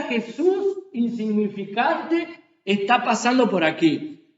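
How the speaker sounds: quiet scornful mutter; dismissive crowd. Retold or imitated. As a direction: toss it off with contempt. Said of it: "la gente decía". (la multitud despreciando a Jesús, con desdén)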